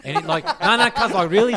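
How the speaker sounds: loud, high, breaking up laughing; real laughter bursting through the words. Real, not acted. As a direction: crack up while trying to keep telling it. Cracks up at own imitation.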